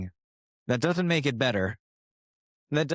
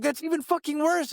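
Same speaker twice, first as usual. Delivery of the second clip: much higher, mock-appalled cry; appalled listeners. People reacting to his story, much higher and appalled. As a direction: voice their disgust. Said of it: "They were like".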